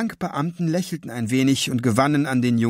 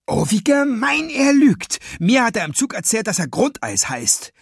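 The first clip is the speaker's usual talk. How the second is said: angry shout; 10 semitones higher than usual. A narrator's reading. Boy shouting at the thief who denies his name, furious. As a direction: explode at the liar. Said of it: "schrie Emil wütend".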